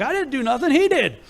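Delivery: high, mock-innocent voice breaking into a laugh; playing innocent. Abram mock-innocently blaming the biggest idol. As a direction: fake innocence, pointing at the idol. Son feigns innocence to dad.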